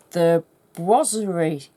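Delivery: Boiserie in a broad Yorkshire accent, said wrongly. Shown as a demonstration. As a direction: say Boiserie the Yorkshire way, not the French. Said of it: "I'm gonna say this very wrongly with my Yorkshire accent".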